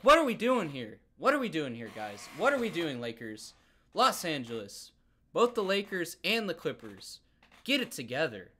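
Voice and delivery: fed up, calling out the team directly; heated rant. Real, not acted. Fan heatedly asking the Lakers what they're doing, exasperated and loud. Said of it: "I'm getting, like, heated about this".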